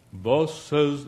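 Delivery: legalist's pompous Oxford delivery; mock Oxford accent. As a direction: put on a stuffy Oxford accent. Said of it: "they always use that voice, so it's usually in Oxford".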